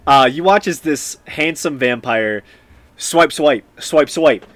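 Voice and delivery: loud, punchy action narration; game master's scene setting. Acted. Game master describing a vampire's clawing, emphatic narration. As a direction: hit each swipe like a blow.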